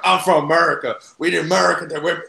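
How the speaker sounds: lightly imitated American accent, indignant; a hint of an offended American accent; mock American accent. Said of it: "sorry for the accent".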